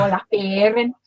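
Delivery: "Baring" in broad Scouse; demonstrated Scouse "Baring"; Scouse accent. Shown as a demonstration. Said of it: "I'd go".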